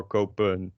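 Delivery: "kopen" with the n barely there; "kopen" with a weak, swallowed "-pun"; mumbled final N. Shown as a demonstration. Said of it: "mumble away the N".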